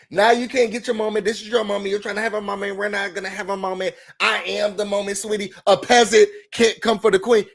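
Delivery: dismissive mocking. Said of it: "it gives very much that dismissive".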